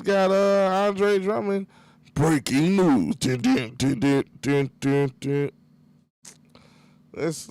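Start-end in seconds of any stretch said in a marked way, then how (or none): 2.1-5.5 mock breaking-news announcer. Announcing a Sixers signing to listeners, mock news bulletin. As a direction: play the bulletin and its dun-dun jingle yourself.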